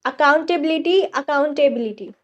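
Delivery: accountability drawn out slowly for learners; slow demo pronunciation. Shown as a demonstration. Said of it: "next जवाबदेही". (धीरे-धीरे स्पष्ट उच्चारण)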